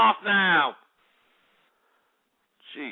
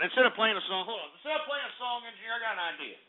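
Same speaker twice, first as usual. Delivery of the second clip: quiet; 9 dB quieter, much faster than usual. Real, not acted.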